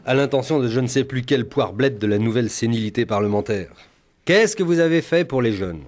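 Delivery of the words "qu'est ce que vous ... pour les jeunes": the question repeated nearer his own voice; lightly quoted politician. Retold or imitated. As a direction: toss the question back, half mocking. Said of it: "lançait l'autre soir Jack Lang".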